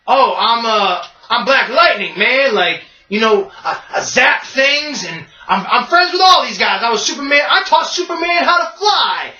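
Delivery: Black Lightning. Retold or imitated. Sinbad's hero introducing himself to Superman's friends, boastful. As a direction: brag bigger and bigger. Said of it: "And he's like".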